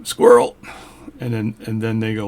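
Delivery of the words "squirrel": sudden high, loud squeal of squirrel; mock distraction shout. Magician fakes a distraction for viewers, squealing squirrel. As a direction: blurt it out like you spotted something shiny.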